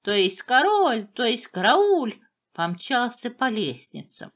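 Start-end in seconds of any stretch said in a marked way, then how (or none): 0.4-1.1 loud, high flustered cry; acted panicky shout; muddled shouting. A narrator's reading. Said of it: "выкрикивать несвязные слова". 1.5-2.2 loud, high flustered cry; acted panicky shout; muddled shouting. A narrator's reading. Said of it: "выкрикивать несвязные слова".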